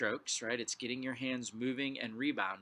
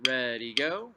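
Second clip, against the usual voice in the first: calling the beats over the drums; loud counting; 9 dB louder than usual. Real, not acted. Teacher counts twos aloud over the drumming, louder. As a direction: count each beat out loud and strong.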